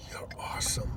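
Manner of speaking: quiet, toneless deadpan compliment. Retold or imitated. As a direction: imitate her with no inflection, very softly. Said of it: "There's no inflection on the tone of her voice".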